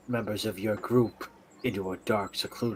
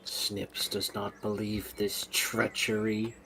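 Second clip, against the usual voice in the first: slow menace; 3 dB quieter, slower than usual. Acted. Snips menacing, third person.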